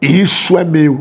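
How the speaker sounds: thick, deep, low-voiced delivery. Retelling a shadowy figure in a cemetery speaking: imitating a deep voice. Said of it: "com a voz grossa".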